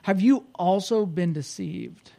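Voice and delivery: slow, mildly snide question; a touch of haughty disdain; snide, arrogant. Acted. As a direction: draw it out with understated arrogance. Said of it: "you can sense the snideness and the arrogance".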